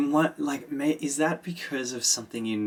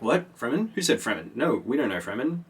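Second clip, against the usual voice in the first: mock alarm; 3 semitones higher, faster than usual. Workers react to mention of Fremen.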